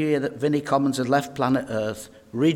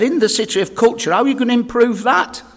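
pitched up high and louder, mock outrage; indignant loud question; 9 semitones higher, 7 dB louder than usual. Caller to the radio host, a loud, high indignant question.

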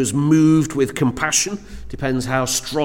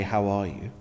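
lower, softer how are you, really asking; gentle caring question; 6 semitones lower, 8 dB quieter than usual. Retold or imitated. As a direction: ask it softly and mean it. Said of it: "when we are sensitive".

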